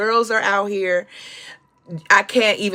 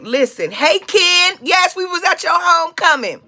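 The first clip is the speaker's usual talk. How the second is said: talking to Ken; 9 semitones higher, 4 dB louder than usual. Retold or imitated. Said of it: "I just kept feeling like".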